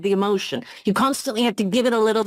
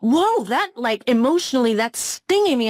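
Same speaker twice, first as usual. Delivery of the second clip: stung reaction; 4 semitones higher than usual. Retold or imitated. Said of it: "you'd be like".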